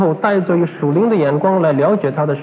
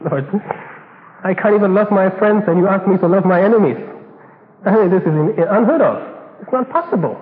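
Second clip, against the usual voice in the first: you can't be serious, Lord; exasperated objection. Acted. Believer objects to loving enemies.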